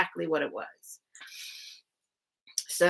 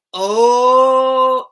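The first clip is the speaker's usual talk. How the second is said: loud, high startled cry; shocked cellmates; 5 semitones higher, 11 dB louder than usual. Retold or imitated. Cellmates learning she's headed to the farm, loud startled cry. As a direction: gasp out in sudden alarm.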